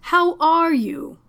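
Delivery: slow, high, overbright question; gushing. Acted. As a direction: make up for the awkwardness with cheer. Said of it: "he practically gushed".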